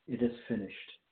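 soft, falling and spent; fading voice. Shown as a demonstration. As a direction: let the words die away quietly. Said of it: "not in a voice that would indicate he was fading away".

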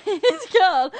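high, loud burst of laughter on the words; laughing. Real, not acted. Slipping up about the boyfriend, laughing. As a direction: crack up while blurting it out. Cracks up at own slip.

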